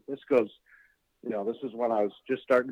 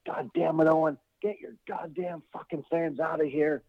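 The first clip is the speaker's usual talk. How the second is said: raised, higher-pitched mock rage; a hammed-up angry manager; retold angry rant; 6 semitones higher than usual. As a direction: rant at Owen like a furious heel manager. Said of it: "he's pissed".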